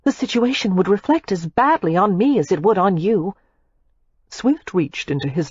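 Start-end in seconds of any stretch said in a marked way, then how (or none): 0.0-3.4 put-on young woman voice. A narrator's reading. Daisy's voice continues.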